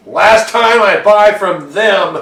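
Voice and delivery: slow, loud grumble; grumbling. Acted. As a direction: mutter a fed-up complaint. Player voices character grumbling.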